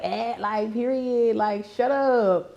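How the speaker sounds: lightly mimicked dramatic daughter; extra daughter. Comedian quoting her stage bit about her daughter, lightly extra voice. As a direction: imitate an extra daughter, slow on the last words. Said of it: "My daughter's so extra. She talks like".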